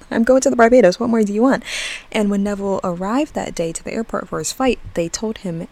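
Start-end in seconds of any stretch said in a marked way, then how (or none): 0.1-1.6 higher, louder mock protest; acting out a fed-up protest; retold exasperation. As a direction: throw up your hands in mock complaint. Voices Neville exasperated at his neighbor.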